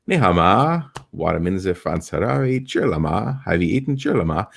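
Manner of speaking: a light showman's Mandarin hello; stage greeting in Chinese. Shown as a demonstration. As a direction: greet the crowd in broken Chinese. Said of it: "say that to your Chinese buddies".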